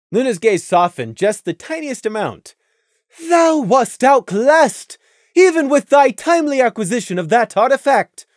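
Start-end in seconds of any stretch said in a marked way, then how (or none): 3.3-8.3 high, loud royal interrogation; imperious moon princess; stern princess Luna. A narrator's reading. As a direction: press them like a stern royal judge. Luna softens slightly.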